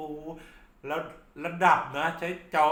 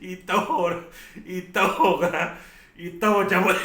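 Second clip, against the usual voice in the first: louder and higher, shouting the hype; hyped shout; 7 semitones higher, 9 dB louder than usual. Acted. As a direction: pump up the crowd about flying cleavers. Hyping a wild stage show. (ตะโกนเชียร์อย่างตื่นเต้น)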